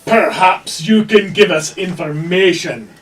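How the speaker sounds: intimidating. Acted. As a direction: lean on the words to intimidate. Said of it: "And I'm gonna now intimidate".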